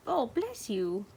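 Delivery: slow, tender blessing; drawn-out gentle bless you. Real, not acted. Responding to animal sneeze.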